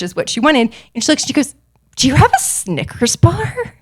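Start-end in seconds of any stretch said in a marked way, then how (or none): 2.0-3.8 lightly voiced, puzzled question; confused. Tyra Banks baffled by a contestant walking in with candy, mildly confused. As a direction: ask it baffled, as if it makes no sense. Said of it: "just, like, confused".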